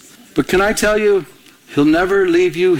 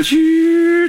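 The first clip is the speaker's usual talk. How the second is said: slow high breathy shoo; mock machine noise, held long; imitated machine shoo; 12 semitones higher than usual. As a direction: stretch out a high shoo sound.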